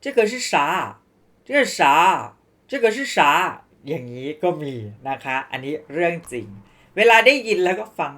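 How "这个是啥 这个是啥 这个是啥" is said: rushed speech. Shown as a demonstration. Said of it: "ยังจะรีบพูดอีก".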